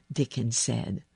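plain reading voice

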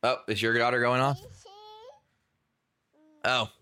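ordinary talk, nothing marked

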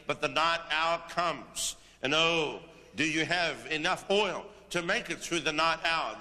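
preacher prophesying over the congregation; prophetic preaching. Acted. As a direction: proclaim it as a word from the Lord. Delivers a prophetic word.

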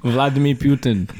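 half-hearted go at a Russian accent; badly faked Russian accent; attempted Russian accent. Shown as a demonstration. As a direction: say it with a wobbly, unconvincing Russian accent. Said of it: "What was that accent?".

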